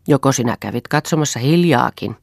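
understated jeer; mocking. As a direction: needle them with a touch of scorn. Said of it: "kysyi Eero pilkallisesti".

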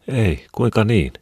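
genuinely puzzled by the question. A narrator's reading. Wife to husband asking if she's sick: slow, puzzled. Wife unaware she is soaked.

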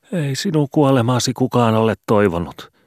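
high, wailing plea.

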